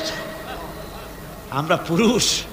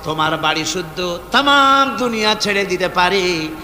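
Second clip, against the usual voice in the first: impassioned melodic plea. Retold or imitated. Abu Huraira pleading with his mother, impassioned chant. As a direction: intone it as a devoted son's plea.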